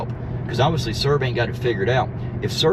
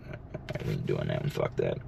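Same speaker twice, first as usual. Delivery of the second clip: low, much quieter under the breath; muttered aside; 10 dB quieter than usual. Real, not acted. Backing off a joke, muttered under his breath. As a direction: mutter it to yourself, half-whispered.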